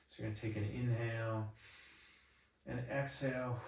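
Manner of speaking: calm, unhurried meditation guidance with long pauses; guided body scan. Real, not acted. Instructor leading listeners through an eyes-closed body scan, calm meditation guidance. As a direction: guide them gently through each breath and movement.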